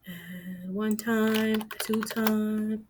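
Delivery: very slow, playful count; a goofy count for the camera; silly sing-song. Acted. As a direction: drag out each time playfully. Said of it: "I don't know why I did that".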